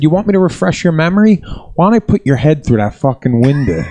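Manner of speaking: retold threat, getting heated; worked-up threat. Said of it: "like, getting worked up".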